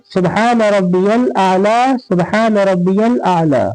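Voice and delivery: slow prostration tasbih; tasbih recited. Shown as a demonstration. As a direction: recite calmly. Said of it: "तीन बार".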